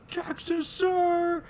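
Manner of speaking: high eager reply; recruit answering. Retold or imitated. Host voicing the recruit answering, high and quick. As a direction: snap back like a nervous recruit. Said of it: "And he's just like".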